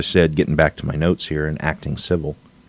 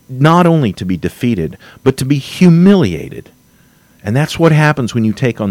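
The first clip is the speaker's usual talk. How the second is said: higher, heated warning; wound up; 7 semitones higher than usual. Real, not acted. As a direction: build to humiliated. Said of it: "I'm getting a little wound up".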